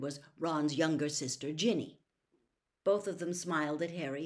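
plain reading voice

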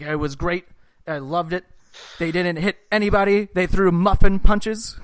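laughing through the words, slowing down; amused retelling, breaking into laughter. Retold or imitated. Quoting Ryan Whitney mocking NBA brawl.

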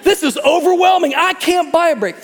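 high, fed-up complaining bird voice; exasperated bird. Retold or imitated. The frustrated mother bird complaining about the trees, exasperated. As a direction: whine it like a bird that can't catch a break. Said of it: "The bird's like".

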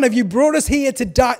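sing-song mock wail; dramatic Israelites. Crowd whining to Moses in a mock lament. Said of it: "They get very dramatic".

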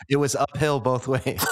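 teasing joke through laughter; laughing joke. Real, not acted. Host teasing Eugene about his six-year-old bus ride, laughing.

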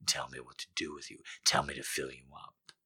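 soft, breathless and fast. Acted. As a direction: pant it out quickly. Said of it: "he pants in a broken, breathless voice".

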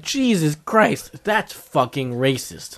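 slow, drawn-out mock dismay; retold exasperation. Host recalling his reaction to the show, slow exasperation. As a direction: draw out each word in appalled disbelief. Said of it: "And I'm like".

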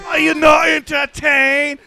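put-on east Asian accent. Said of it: "Doing that with an Asian accent".

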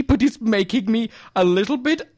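high voice climbing to a strangled squeal; building comic anger. Acted. Quiz caller stumped by a question, anger rising to a squeal. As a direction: stretch the words as the tantrum builds. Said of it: "Oh, I'm getting angry".

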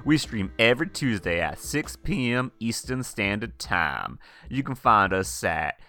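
lightly voiced breathy vintage host; Clem Clemens breathy purr. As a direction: purr it out like an old-time showman. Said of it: "It's me, Clem Clemens".

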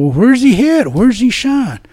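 high, urgent call across the room; retold yelling. Officers yelling about where the cop was shot, high urgent call. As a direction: yell it out to the others, worried. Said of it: "and people are yelling".

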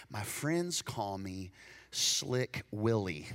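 slow, low, drawn-out name; slick introduction. Retold or imitated. Swindler telling the preacher his nickname, slow and smug. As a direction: savour the nickname like a con man.

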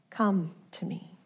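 soft whispered invitation; gentle whisper. Acted. Preacher voices Jesus inviting the bitter believer, whispered. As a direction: breathe it like a tender call.

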